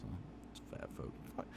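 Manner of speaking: whispered under breath; hushed aside. Real, not acted. Muttered aside.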